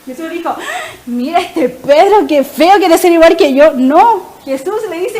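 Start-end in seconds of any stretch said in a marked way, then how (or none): 1.0-3.7 loud, slow-starting mock indignation; mock anger. Jesus jokingly enraged at Peter, mock angry. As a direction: pretend to be put out, louder. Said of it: "Y Jesús se enojó".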